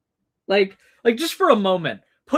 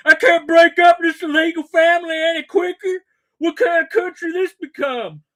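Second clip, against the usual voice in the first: much higher, louder enraged shouting; mock furious yell; 10 semitones higher, 9 dB louder than usual. Streamer mocking an angry man stuck on the ICE hotline. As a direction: explode like a frustrated caller on hold. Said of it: "he's going".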